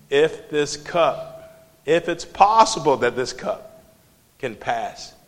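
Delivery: pleading. Retold or imitated. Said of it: "What did he say when he was on the cross?".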